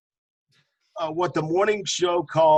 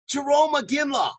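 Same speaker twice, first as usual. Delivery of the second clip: excited reveal; 9 semitones higher, 4 dB louder than usual. Real, not acted. Punchline reveal of the name.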